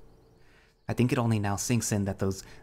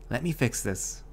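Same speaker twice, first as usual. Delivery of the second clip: comforting; 3 semitones higher than usual. Acted. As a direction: gently reassure. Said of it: "His voice is oddly comforting".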